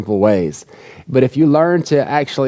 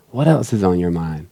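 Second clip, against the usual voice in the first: caring question; 7 semitones lower than usual. Retold or imitated. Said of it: "look at me and say".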